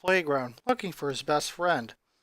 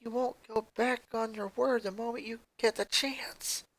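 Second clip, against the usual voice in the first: hushed tone; 4 semitones higher, 6 dB quieter than usual. Acted. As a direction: keep it down so the librarian won't hear. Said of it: "In a hushed tone".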